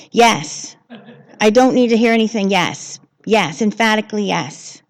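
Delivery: fast, loud, eager yes. Retold or imitated. Cousin on the phone, fast emphatic yes. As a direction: blurt out yes before she finishes.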